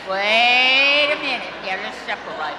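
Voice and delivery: a shepherd calling out to stop rowdy sheep. Retold or imitated. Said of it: "the shepherd gets in there with that crook and says".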